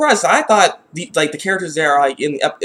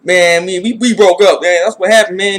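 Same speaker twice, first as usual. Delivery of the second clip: casual mock reply; 2 semitones higher, 5 dB louder than usual. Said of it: "she coulda honestly maybe said".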